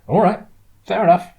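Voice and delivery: high, loud, easy concession; smiling. A narrator's reading. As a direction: back off with a smile in the voice. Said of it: "still smiling".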